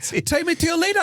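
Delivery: high, odd alien voice. Retold or imitated. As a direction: play the visiting alien. Alien asks for leader.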